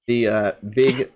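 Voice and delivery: put-on English accent, carrying on regardless; mock-English podcast patter. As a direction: press on in a fake English accent. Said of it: "you're from the U K".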